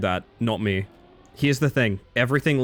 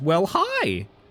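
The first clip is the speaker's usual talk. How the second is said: put-on cat character voice with a Southern accent; 7 semitones higher than usual. A streamer recalls their first message to the Discord, Tupper's southern cat voice. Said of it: "I even hit the same pitch".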